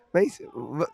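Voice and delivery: Liverpool accent, lightly put on; a hint of Scouse. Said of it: "your Scouse accent killed me then".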